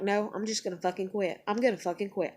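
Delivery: quiet, low resolve to quit; muttered inner protest. Retold or imitated. Arguing with herself about quitting, quiet mutter. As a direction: grumble it under your breath.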